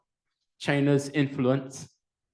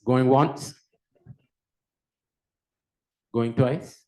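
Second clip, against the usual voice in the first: auctioneer; 3 dB louder, slower than usual. Pretend. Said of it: "I'll do this like an auctioneer now".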